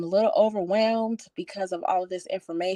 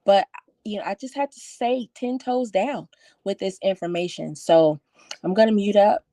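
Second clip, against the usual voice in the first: shaky voice. Real, not acted. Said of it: "you guys probably can hear my voice shaking".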